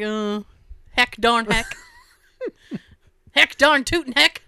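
put-on hokey old-timer voice; folksy, laughing mock cowboy; old prospector. Clean-show voice, hokey swears.

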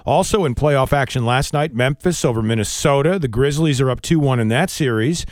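brisk, polished sportscaster delivery; radio sports read. Acted. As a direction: read out the scores like a radio anchor. Reads radio sports update.

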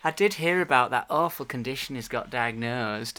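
put-on lightly high, polite old gentleman voice; a hint of a fussy Alan Bennett; Alan Bennett impression. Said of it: "why are you doing my accent there".

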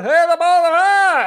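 loud, very high garbled shouting; retold frantic yell. Retold yelling at police car.

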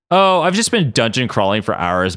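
offhand, easy reply; casual. Acted. Madeline explains her dungeon crawling, casual. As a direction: toss it off casually. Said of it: "Madeline said casually".

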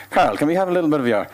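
fast, swooping radio presenter voice; Sean Rock. Retold or imitated. Radio host asking a guest on air, presenter patter. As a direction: mimic a radio host's patter. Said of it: "in his Sean Rock's kind of radio voice".

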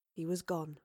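ordinary delivery

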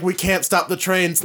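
flat monotone mock delivery. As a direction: say it in a dull monotone. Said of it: "like, monotone voice".

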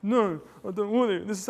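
put-on a child refusing his father's offer, whining; whiny kid. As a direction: whine it like a spoilt kid. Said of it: "And then the kid goes".

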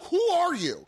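high incredulous line with laughter; laughing disbelief. Retold or imitated. Retelling the intruder story, laughing high disbelief. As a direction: laugh through the question.

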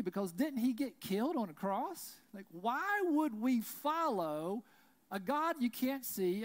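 loud, high, scornful challenge; voicing the doubters' case against Jesus to the congregation, loud and scornful; mocking skeptic. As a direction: preach the skeptic's case at full force. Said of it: "a lot of people would say".

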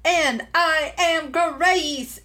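lightly hammed TV host voice; game show host. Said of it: "today I'm using my game show host voice".

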